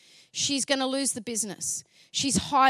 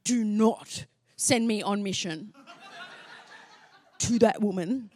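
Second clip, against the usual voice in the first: laughing plea; 4 semitones lower, slower than usual. Retold or imitated. Pleading with God, laughing.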